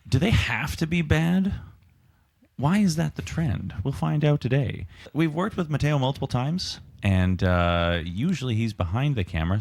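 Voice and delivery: presenter's delivery with lifted questions; podcast intro. Real, not acted. Host introducing sequels topic and the line-up, podcast intro. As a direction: announce the topic and roll-call the hosts.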